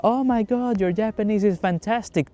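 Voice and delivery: high-pitched imitation of an impressed woman; mock amazed gushing. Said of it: "she changed from".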